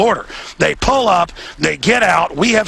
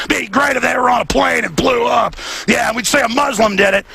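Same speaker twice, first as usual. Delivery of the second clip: raised-pitch imitation of a brazen plotter; mock plotting aloud; 5 semitones higher than usual. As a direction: blurt the quote out for all to hear. Acting out openly plotting in lobby.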